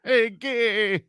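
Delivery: loud, high, drawn-out comic impression; Andrew Dice Clay. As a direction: belt it out like a brash stand-up, stretching the words. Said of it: "Is her boyfriend Andrew Dice Clay?".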